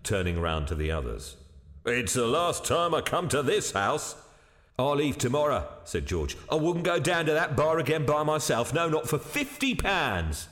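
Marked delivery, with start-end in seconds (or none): 1.9-5.7 slightly agitated, higher-pitched waiter; shaken waiter. Acted. Waiter vowing to quit the house, shaken. 6.5-10.5 high-voiced, adamant waiter; shaken waiter. Waiter refusing to return to the bar, adamant.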